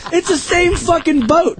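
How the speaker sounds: high, laughing exasperation; exasperated retort. Retold or imitated. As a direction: protest it with a laugh. His own retorted line.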